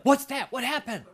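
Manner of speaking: high, startled questions breaking into a laugh; amazed surprise. Retold or imitated. Pastor reliving his wonder at worship, surprised and laughing. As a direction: sound stunned and delighted at once.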